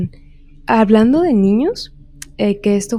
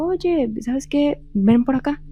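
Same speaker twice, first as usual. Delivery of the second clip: higher-pitched calling without raised volume; mild mock call; 5 semitones higher, slower than usual. Mother calling her son back from the bike, lightly imitated call. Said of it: "su mamá le gritó".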